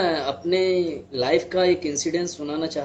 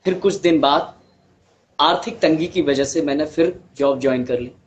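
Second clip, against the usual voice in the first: measured storytelling with long pauses; understated monologue, pausing heavily between sentences; dramatic monologue; 3 dB louder than usual. Acted. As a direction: recount a hard life story in earnest, phrase by phrase.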